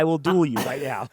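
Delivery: lightly voiced duel challenge, quiet; a hint of a movie hero daring; mock challenge. Imagining the dad's challenge, lightly acted. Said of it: "Would you go".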